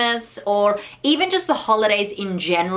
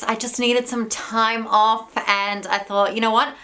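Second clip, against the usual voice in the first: out of breath. Real, not acted. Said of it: "I don't know why I'm out of breath".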